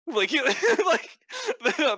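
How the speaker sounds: high, loud burst of laughter through the words; laughing. Real, not acted. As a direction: break up laughing mid-sentence. Cracking up at the insult.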